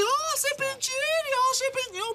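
high, slow mocking voice of a gossip; mocking imitation. Father mocks what people would say about him, high and slow. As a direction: mimic someone jeering at you. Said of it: "alguien rompe emporio y dice".

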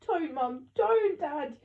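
high, desperate shout. A narrator's reading. Child trying to stop parents fighting, shouting. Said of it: "I shouted".

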